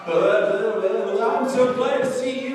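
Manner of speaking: high, loud, slow slobbery dog impression; overjoyed dog voice. Preacher plays dog licking a face, overjoyed dog voice. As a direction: gush like a dog greeting its owner.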